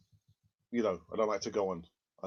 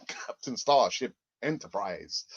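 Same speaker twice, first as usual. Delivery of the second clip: mock captain voice; 3 semitones lower, slower than usual. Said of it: "Captain Kirk of the Starship Enterprise".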